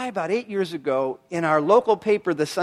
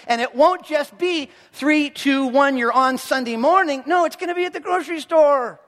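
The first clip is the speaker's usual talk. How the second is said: high, insistent pulpit exhortation; animated, high-pitched rallying of the crowd; fired-up preaching; 5 semitones higher than usual. Real, not acted. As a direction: press the point home with rising energy. Preacher exhorting with acted examples.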